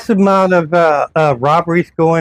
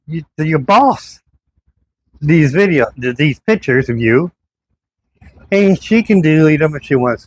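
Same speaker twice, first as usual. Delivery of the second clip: retold angry defiance; 4 semitones higher than usual. Telling off the police officer about reporting him, heated. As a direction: pitch raised higher, a mock-heated rant.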